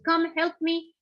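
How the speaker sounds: screaming to God. Acted. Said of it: "he's screaming to God".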